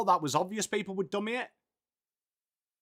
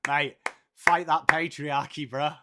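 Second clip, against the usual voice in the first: put-on ocker Aussie accent; 5 semitones lower than usual. Streamer answers chat in a broad Aussie accent. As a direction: lower put-on Aussie bloke voice. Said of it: "stuck with this accent forever".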